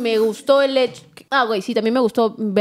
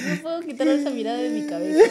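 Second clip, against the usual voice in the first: laughing; 3 semitones higher, 3 dB quieter than usual. Real, not acted. Reacción riendo.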